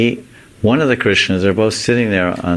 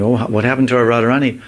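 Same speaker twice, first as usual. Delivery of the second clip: lightly voiced worried girls, a bit higher and quicker at first; a hint of fretting friends at a loss; worried gopis; 3 semitones higher than usual. Gopis fretting to each other about missing Radharani, lightly higher. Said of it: "the gopis start talking".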